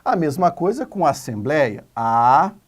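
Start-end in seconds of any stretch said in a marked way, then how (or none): 1.9-2.6 separated into syllables. Shown as a demonstration. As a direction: sound out "Assembleia" as a, ssem, blei, a. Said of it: "Vamos separar em sílabas". ("Assembleia" bem devagar, sílaba por sílaba)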